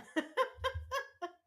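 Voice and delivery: high loud laugh; real burst of laughter. Real, not acted. Laughing out loud at what Dave typed in chat. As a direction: crack up for real.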